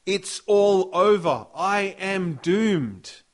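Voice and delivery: a prophet crying out he is doomed; doomed despair. Acted. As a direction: wail that all is lost. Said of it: "another translation has".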